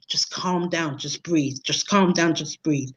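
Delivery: soft, low, near-whispered calming; quietly imitating a partner saying calm down; imitating soothing partner. Partner soothing her in hospital.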